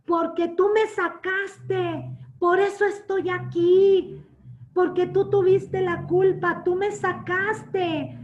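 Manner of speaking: mock a stranger screaming blame at the husband; retold yelling. Woman outside the store yelling at the husband, slow angry mock yell. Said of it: "le estaba gritando a mi esposo".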